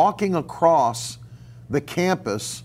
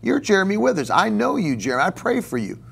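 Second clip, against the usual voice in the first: put-on old teacher voice; 4 semitones higher than usual. Professor tells a startled student he prays for him, lightly voiced. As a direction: gently tell the student you pray for him.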